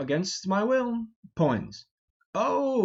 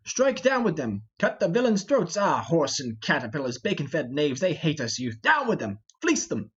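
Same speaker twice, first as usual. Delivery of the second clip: battle shouts. Acted. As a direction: rouse the robbers to attack. Falstaff attacking travellers.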